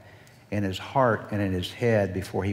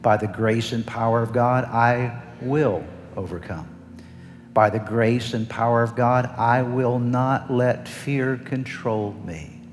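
preaching declaration. Acted. Closing declarations.

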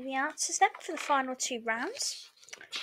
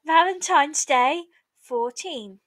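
raised, sing-song bingo calling; bingo caller; 3 semitones higher, 5 dB louder than usual. Acted. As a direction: call it out like a bingo hall caller. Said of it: "bingo calls".

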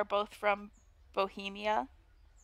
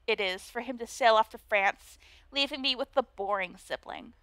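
put-on Valley Girl voice. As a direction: play the snooty mean girl, Valley Girl style. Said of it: "a Valley Girl voice".

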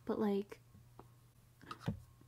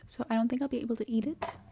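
talking with a retainer in; speech around a retainer; wearing a retainer; much faster than usual. Real, not acted. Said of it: "I have my retainer in".

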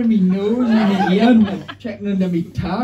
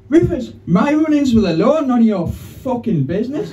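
defensive; 5 semitones higher than usual. Retold or imitated. Comic snapping at Rufus about his past, defensive. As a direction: bristle and brush him off. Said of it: "I got all defensive".

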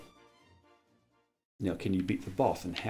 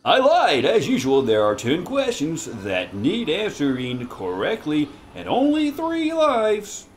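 slow theatrical villain menace; 6 semitones higher, slower than usual. Acted. Doctor Quack villain quiz host.

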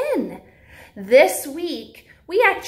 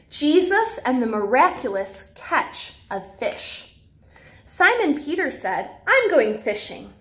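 lively storybook read-aloud for little ones; reading to children. Acted. Teacher reads a Bible story to preschoolers in storybook voice.

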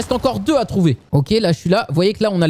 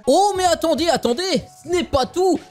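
high excited "wait, there's more"; infomercial hype; 8 semitones higher than usual. Acted. Pitching the game sale to viewers, high and hyped. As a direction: sell it like a TV shopping host.

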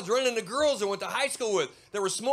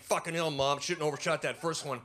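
put-on lower, deflated kid aside; grumbling kid; 5 semitones lower than usual. Lower, deflated Bobby grumbling to his mom. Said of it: "And Bobby's like".

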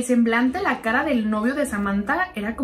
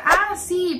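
nervous; 7 semitones higher than usual. Retold or imitated. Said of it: "pero como todo nervioso".

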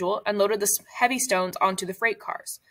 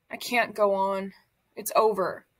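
weak and defeated. Acted. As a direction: let the words fall out with no strength left. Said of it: "telling everyone how weak he was".

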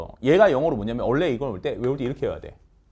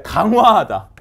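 강화하다 said louder and punched; emphatic answer; 4 semitones higher, 7 dB louder, slower than usual. Shown as a demonstration. Teacher punching out 강화하다 as the answer. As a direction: hit 강화하다 hard. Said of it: "이렇게 하는 걸 뭐야".

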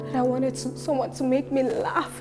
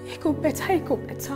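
emotional monologue; 4 dB louder than usual. Acted. Wife's monologue to Troy.

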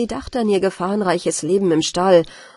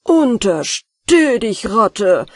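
slow, louder threatening warning; threatening shout; 5 dB louder, much slower than usual. Acted. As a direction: warn the rat off, loud and stern. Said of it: "rief der Hausherr und hob drohend die Gabel".

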